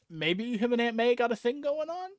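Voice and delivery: climbing high, suggestive question; teasing insinuation. Real, not acted. Hinting at a romance between him and Aunt May, teasing insinuation. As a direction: let the pitch rise steadily to a high questioning "on". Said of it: "I don't know why I'm saying it like that".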